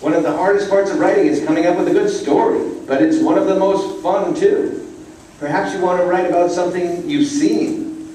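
a bright little bird explaining to a puppy; little yellow bird. Acted. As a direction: chirp it out like a cheerful teacher bird. Little yellow bird teaches Rocket.

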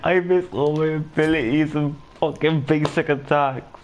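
frustrated high rant. Real, not acted. Gamer ranting at himself after choking, high frustrated rant.

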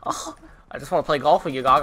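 quick mock impression of a country gamer; imitating a gamer. Mocking a friend's country voice to his buddies, quick light imitation. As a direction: rattle it off fast like him. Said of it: "That's how he sounds".

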